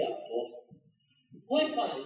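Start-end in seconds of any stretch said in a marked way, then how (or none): 1.5-2.0 a mildly raised, caught-off-guard oi, pai; a daughter surprised to see her father at the door; first oi, pai only lightly lifted; startled greeting. Retold or imitated.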